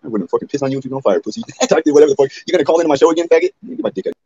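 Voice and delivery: loud, high mocking taunt; taunting shout. Real, not acted. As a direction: spit the insults at him. Taunting a caller.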